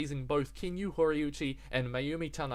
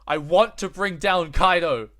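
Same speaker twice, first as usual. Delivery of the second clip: Momonosuke quote; 5 semitones higher, 11 dB louder than usual. Retold or imitated. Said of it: "Then Momonosuke".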